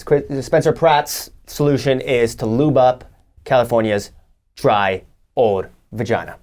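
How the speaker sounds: slow mock announcement. Host mock-announces solution slowly.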